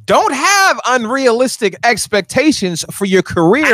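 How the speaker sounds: slow, rising pulpit cadence; preacher voice. Acted. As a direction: preach it, drawing out words. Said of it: "say it in your preacher voice".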